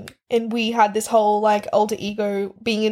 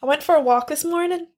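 slightly higher Irish lilt; tentative put-on Irish accent; attempted Irish accent; 4 semitones higher than usual. Shown as a demonstration. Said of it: "Let's see if I can do it".

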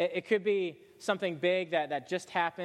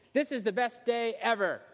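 gleeful Rapunzel; 6 semitones higher than usual. Acted. Rapunzel's gleeful swing in dialogue.

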